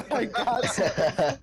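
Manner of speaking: giggling through the words; laughing. Real, not acted. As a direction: laugh while you say it. Laughing at belt pouch.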